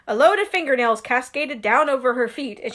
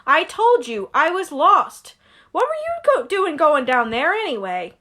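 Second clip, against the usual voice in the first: Harry protesting; 4 semitones higher, 3 dB louder than usual. Acted. Harry protesting to Hagrid, lightly indignant. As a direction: push back, a bit indignant.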